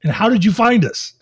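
mock incredulous HR lady. HR lady emailing to ask how they found them, mock incredulous. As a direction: play her puzzled disbelief. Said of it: "then she goes".

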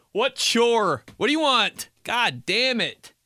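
high, whiny irritation; exasperated answer. Acted. Answering someone who wants to call, exasperated. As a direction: cry out in mock despair at being asked a favour.

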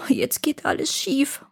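frightened little whisper; whispered thought. A narrator's reading. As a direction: whisper it in dismay. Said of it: "dachte der Kleine".

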